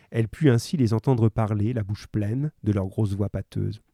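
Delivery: measured read-aloud storytelling; story narration. A narrator's reading. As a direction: read it out evenly to listeners.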